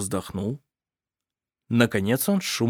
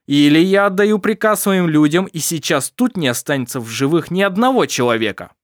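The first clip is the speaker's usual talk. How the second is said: higher, louder, building threat; menacing pirate captain; 4 semitones higher, 5 dB louder than usual. Acted. Pirate captain threatening the family, rising menace. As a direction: lord it over the sea and dare them.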